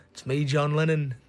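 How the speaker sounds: badly faked British accent; a singer. The singer interrupting his own record, in a terrible British accent. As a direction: introduce yourself in a poor British accent.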